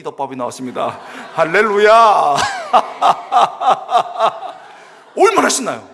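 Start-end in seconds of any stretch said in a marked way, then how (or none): 1.3-2.4 loud, drawn-out hallelujah; comic burst of praise; jubilant shout. Acted. Celebrating beef bowl lunch to congregation. 2.4-4.7 loud, high belly laugh; long string of hearty ha-ha bursts; big laugh. Real, not acted. Laughs after his hallelujah shout.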